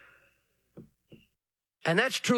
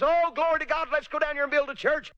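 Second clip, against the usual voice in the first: mock enthusiast; 9 semitones higher than usual. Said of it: "gets on the bandwagon and says".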